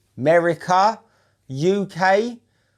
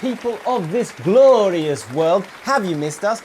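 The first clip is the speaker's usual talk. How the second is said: high, hammed-up announcer welcome; grand show intro; 3 semitones higher than usual. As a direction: open the show like a ringmaster. Grand show-opening address.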